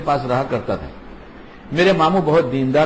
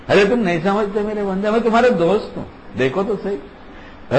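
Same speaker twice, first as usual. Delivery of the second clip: higher, gently coaxing friend voice, slowing at end; coaxing grandfather; 4 semitones higher than usual. Retold or imitated. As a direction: win the child over playfully. Grandfather voicing himself to child.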